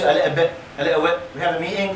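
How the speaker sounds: put-on light Birmingham accent, quick; a casual imitation of the Birmingham accent, with "a little bit" said twice. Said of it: "So they have a special accent there".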